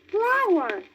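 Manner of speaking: high slow first word; wondering fawn. A narrator's reading. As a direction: say it like a baby fawn. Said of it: "said Bambi".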